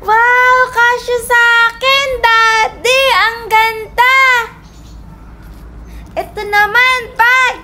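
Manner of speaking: thrilled, lilting admiration; delighted wonder. Acted. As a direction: marvel at a new present. Child tries on new uniform.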